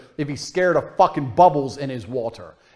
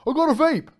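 higher, lightly put-on teen brag; mock teenage son; 10 semitones higher than usual. Imitating a teenage son bragging to his dad, higher and put-on. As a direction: play the cocky kid. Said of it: "he's like".

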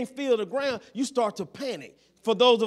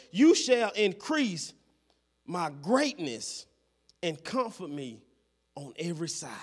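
reverent recital; 5 semitones lower than usual. Acted. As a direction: let each phrase settle downward, with pauses. Reciting scripture as David's prayer.

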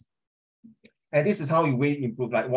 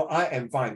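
"I am fine" at usual pitch, closing on fine; full-stop intonation. Shown as a demonstration. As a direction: let "fine" land as a finished statement. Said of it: "full stop".

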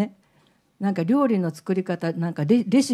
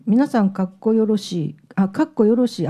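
quoting a woman in Kansai dialect; 2 semitones higher, 4 dB louder than usual. Retold or imitated. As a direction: put on an emphatic Kansai lilt. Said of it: "関西弁なんで、 彼女".

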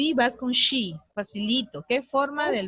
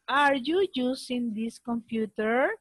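slow reading. Shown as a demonstration.

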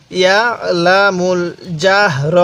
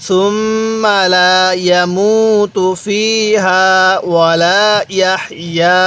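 recite along. Shown as a demonstration. Teacher asks students to read with him, chanted recitation. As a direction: model the verse for students to repeat. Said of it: "আরেকবার আমার সাথে পড়ুন".

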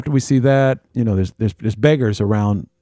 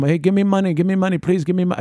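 imitated beggar; 8 semitones higher, faster than usual. Beggars pestering at pyramid.

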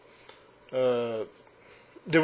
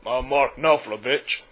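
a singer's voice; 3 semitones lower than usual. Acted. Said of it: "very best" impersonation of a singer.

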